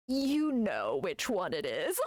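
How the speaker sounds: slow, lightly imitated psychic verdict; TV psychic's catchphrase. Psychic answering a caller about the baby's father, lightly imitated. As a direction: draw it out like a TV psychic. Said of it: "every time she's like".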